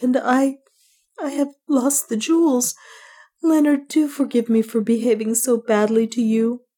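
high-pitched, pleading woman's voice; tearful confession. A narrator's reading. Woman begging pardon of her love before death, tearful. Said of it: "tears began to roll down".

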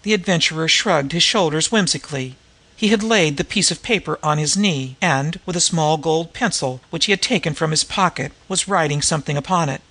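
measured, articulate audiobook reading; story narration. A narrator's reading. Gentleman pleading to help the White Mall, measured story reading. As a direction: read the story aloud with careful diction.

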